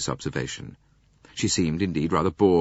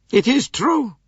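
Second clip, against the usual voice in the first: put-on high, slow haughty old lady; lofty aged princess voice; 8 dB louder, slower than usual. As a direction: voice the elderly princess, cool and proud. Princess voice held.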